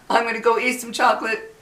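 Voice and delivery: said through a laugh; amused, laughing at herself. Real, not acted. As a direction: chuckle the words out. Laughs repeating the chocolate line.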